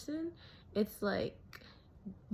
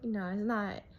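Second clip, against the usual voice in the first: mock asshole retort. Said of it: "assholes would be like".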